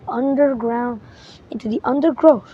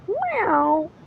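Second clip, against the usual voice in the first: cat meow; 6 semitones higher, 6 dB quieter than usual. Acted. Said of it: "said Wilbur".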